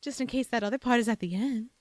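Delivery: brisk mock British lilt; affected hybrid British accent; put-on British-Southern accent. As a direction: keep up the loopy British-Southern accent, quickly. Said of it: "I will be talking like this".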